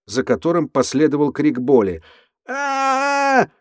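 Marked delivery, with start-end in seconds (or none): 2.5-3.5 a long high scream of pain. Acted. Andrew after punching himself, screaming in pain. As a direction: howl as if struck in the face. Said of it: "орал Эндрю".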